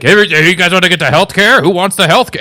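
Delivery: hammed-up bad impression, pitched high; Bernie Sanders. Opener riffing on health care, deliberately bad impression. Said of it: "a Bernie Sanders impression that is so bad".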